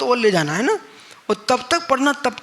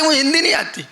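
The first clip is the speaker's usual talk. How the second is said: laughing retelling; 7 semitones higher, faster than usual. Retold or imitated. Preacher laughs retelling the herd boy's reply to monks. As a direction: repeat the boy's line while cracking up.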